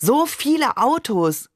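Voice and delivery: high, drawn-out exclamation of wonder; stretched, excited cry; amazed call. A narrator's reading. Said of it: "rief ich".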